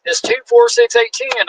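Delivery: put-on high, slow count like to a child; patronising official counts to ten. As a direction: spell it out like he's teaching a kid. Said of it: "He goes".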